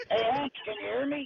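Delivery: muffled like in a cave; muffled phone mic. Real, not acted. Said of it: "it sounds like you're in a cave".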